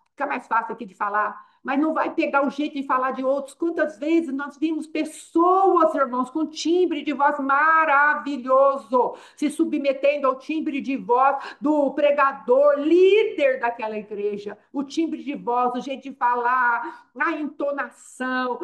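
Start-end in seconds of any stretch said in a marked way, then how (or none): 3.5-14.6 impassioned preaching. Acted. Preacher lamenting copied preaching voices.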